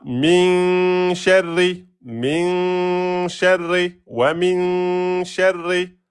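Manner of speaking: slow chanted "Min sharri" with a long held min; Quran recitation. Shown as a demonstration. Teacher chanting verse slowly for students. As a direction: intone it like tajwid recitation. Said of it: "C'est la même règle".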